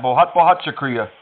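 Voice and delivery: बहुत, बहुत शुक्रिया rattled off fast; rushed Hindi thanks. Shown as a demonstration. Caller tests his Hindi on scammer, rushed. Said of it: "Did I sound okay when I said that".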